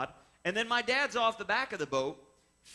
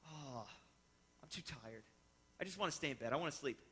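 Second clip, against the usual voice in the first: much softer, lower, drowsy whine; sleepy mumble; 5 semitones lower, 12 dB quieter than usual. Retold or imitated. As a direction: groan it from under the covers. Jordan refuses to get up.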